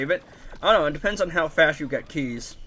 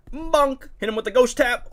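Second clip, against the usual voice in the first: hyped callout; 10 semitones higher, 4 dB louder than usual. Real, not acted.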